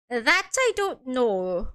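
slow, lightly Irish admission; attempted Irish accent. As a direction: draw it out with a faint Irish lilt. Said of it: "doesn't sound Irish at all".

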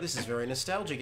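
ordinary talk

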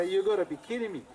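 high, loud retold protest; loud disbelief. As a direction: act out being utterly incredulous. Acted disbelief at the answer.

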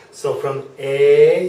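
"A" as an open ah before rounding the lips; German A start. Shown as a demonstration. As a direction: begin on the plain German ah vowel. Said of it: "start rounding your lips".

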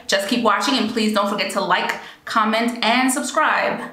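bright announcer sign-off; newscaster voice. Real, not acted. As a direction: read it like a TV host. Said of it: "I sounded like a newscaster there".

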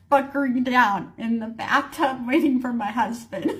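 breaking into a laugh while telling it. Real, not acted. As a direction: let real amusement spill out at the end. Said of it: "I was not laughing at this time".

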